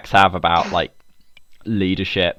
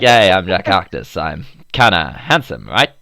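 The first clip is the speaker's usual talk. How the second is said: mock a cocky American, half-hearted; lightly voiced American show-off; Jack Harkness; 2 semitones lower, 3 dB louder than usual. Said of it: "my thoughts on American accents".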